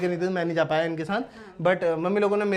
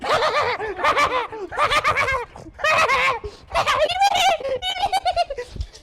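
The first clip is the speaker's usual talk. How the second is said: high giggle. Real, not acted. After cooing at pet.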